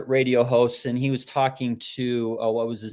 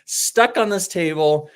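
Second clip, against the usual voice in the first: mildly indignant retold outburst; mock furious; 3 semitones higher than usual. Patient stuck on the table, offended by the acupuncturist, mock furious. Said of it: "Vince was furious. He's like".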